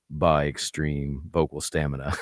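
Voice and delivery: deep announcer voice; radio voice. Shown as a demonstration. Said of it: "let me use my radio voice".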